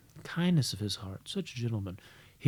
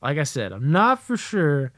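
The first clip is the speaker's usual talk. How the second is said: raised, louder mock-serious announcement; grave brother; 3 semitones higher, 6 dB louder than usual. Brother reporting bathroom discovery, mock-grave. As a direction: report it with halting, careful formality.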